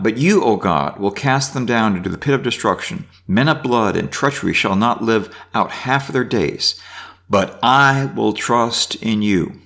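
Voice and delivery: reading scripture aloud. Acted. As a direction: read the psalm out to the class. Reads psalm aloud.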